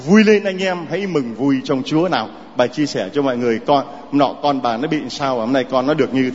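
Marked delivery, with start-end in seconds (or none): 0.1-2.1 mock joyful call. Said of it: "Chúa bảo".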